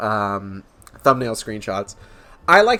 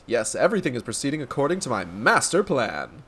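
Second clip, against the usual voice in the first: lightly pompous, knowing declaration; self-assured inspector; 4 dB quieter than usual. Acted. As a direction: relish MASTER PLAN as a grand secret. Inspector declares his plan.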